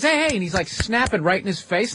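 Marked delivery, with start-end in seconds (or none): 0.0-0.3 mock taunting guy. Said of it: "He goes".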